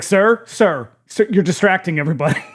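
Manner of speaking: playful pretend scolding; imagined exasperated staffer. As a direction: call out to a nuisance, hammed up.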